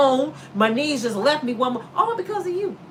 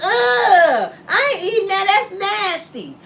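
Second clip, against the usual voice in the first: disgusted refusal; 6 semitones higher, 3 dB louder, slower than usual. Retold or imitated.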